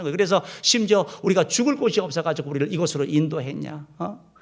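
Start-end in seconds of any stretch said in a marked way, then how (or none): 1.2-4.3 mild mock grievance; retold complaint. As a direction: lightly imitate people blaming their leader. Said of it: "이렇게 계속 원망, 불평하게 된". (원망하듯 따지는 말투 흉내)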